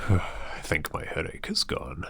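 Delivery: sighing whisper of relief. Acted. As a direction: breathe it out softly.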